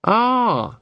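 brightly. A narrator's reading. Carrot brightly sets up his question to Sergeant Muldoon, perky. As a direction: perk up as if you've found something. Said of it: "said Carrot brightly".

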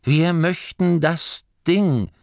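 slow, firm demand. Acted. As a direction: plant your feet and state it. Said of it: "sagte Masklin fest".

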